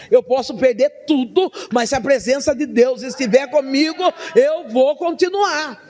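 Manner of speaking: soldado determinado. Acted. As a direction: declare it with full preaching conviction. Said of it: "um soldado que diga". (declaração firme, crescendo até o fim)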